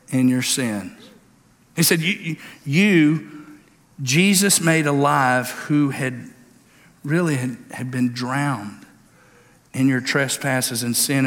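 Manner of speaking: solemn preacher's reading; scripture reading. Acted. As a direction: read the verses with weight. Reads scripture aloud.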